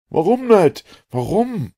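very high, loud, pressing questions; urgent questioning. A narrator's reading. Professor begs Ned for the reason, urgent. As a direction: demand the answer in agitation.

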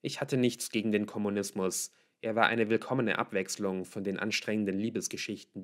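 ordinary delivery, nothing marked

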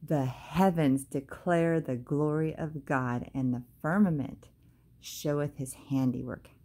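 "The heavens declare the glory of God" read slowly, each word weighed; slow down and let every word of the verse land; slow, deliberate scripture reading. Shown as a demonstration. Reading the psalm slowly back to her viewers. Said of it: "let's just stop right there".

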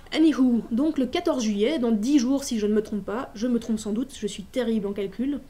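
lively read-aloud of a novel passage. Acted. A teacher reads a fussy English host's invitation to her class, lively. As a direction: read the invitation out like a polite, rambling host.

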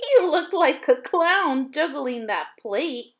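loud, teasing jeer at a classmate; mocking taunt. A narrator's reading. Terry teasing Ling Sung about the plate, loud jeer.

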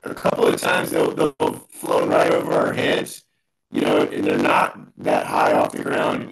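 glitchy robotic distorted call audio. Real, not acted. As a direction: sound like a broken robot on a bad line. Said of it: "you got, like, a crazy robot voice going on".

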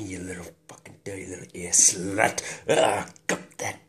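building from breathy mutter to loud cry; frenzied climax. Acted. Carried away with the ear, frenzied climax.

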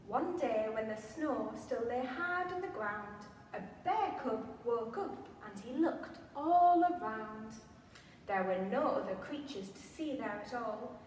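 lively picture-book read-aloud; reading to children. A narrator's reading. Museum storyteller reads Little Bear's Spring to children, animated. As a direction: read the rhyme with wide-eyed expression for little ones.

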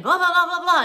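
mock yelling, high and loud; loud mocking blah-blah of a rant; retold yelling. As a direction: rattle off his ranting as noise. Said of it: "started yelling at the lady".

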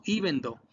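"Even though" with no G sound; silent G. Shown as a demonstration. Teacher warns against the G, "Even though" as EE-ven DOH. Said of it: "No pronuncien la G".

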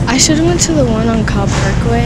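breathless from walking; out of breath. Real, not acted. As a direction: talk a little winded. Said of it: "I'm getting out of breath".

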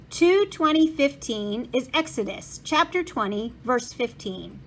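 put-on Bible reference in a thick German accent. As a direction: state the verse like an old German printer. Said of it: "said a man with a thick German accent".

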